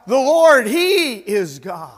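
voicing the crowd's loud cry, first word high then slowing. A preacher voices the crowd on Mount Carmel crying out. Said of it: "The whole crowd now cries out".

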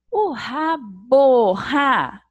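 "rabo" said slow and loud, split into "ra" and "bo"; syllable demo. Shown as a demonstration. Teacher sounding out rabo for children, slow and loud. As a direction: stretch out "rabo" so both syllables show. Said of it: "abro a boquinha duas vezes pra falar rabo".

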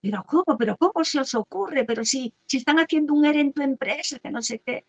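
high, reproachful scolding; disapproving relative. Retold or imitated. Relative scolding the couple for having a baby now. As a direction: scold the couple for bad timing. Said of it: "o puede ocurrir".

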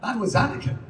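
one quick read of Anakin; anakin take one. Retold or imitated. Voice actor reading his line Anakin, lightly performed. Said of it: "it was always like".

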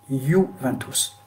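slow "Juventus", yoo-ven-toos; "Juventus" with a lengthened first syllable; Italian pronunciation. Shown as a demonstration. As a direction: demonstrate "Juventus" slowly with y for J. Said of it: "en italien, on dit Juventus".

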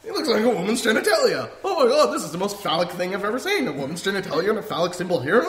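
high, loud, giggling through every word; laughing stoned friend. Retold or imitated. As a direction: mimic a stoned friend cracking up at a bong. Imitating Brian, stoned and laughing.

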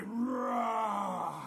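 drawn-out, falling dinosaur roar; bigger dinosaur roar. Shown as a demonstration. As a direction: give ROAR everything, like a big dinosaur. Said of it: "Sometimes you need a bigger roar".

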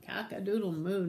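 full-voiced cow crow; nice and loud. Shown as a demonstration. Teacher showing children the big one, nice and loud. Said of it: "nice and loud".

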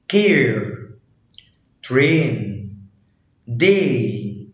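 "كير", "ترين", "داي" with one long ay vowel. Shown as a demonstration. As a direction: stretch the vowel in ترين like an Arabic ye. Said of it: "بتتنطق زي اللي في العربي".

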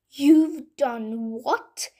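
mother bellowing at Jack over the cow. Acted. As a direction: drag out the outrage at her son. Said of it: "she bellowed".

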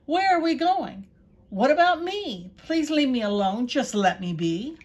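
donkey pleading with the men, frightened. A narrator's reading. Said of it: "And then said again".

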